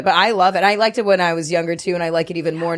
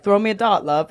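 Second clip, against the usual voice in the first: put-on British accent; 3 semitones higher than usual. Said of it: "they're like".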